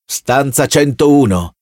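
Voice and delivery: slow, level, unmoved order; officer coldly repeating the sentence; cold officer reply. Acted. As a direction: answer the begging man flatly.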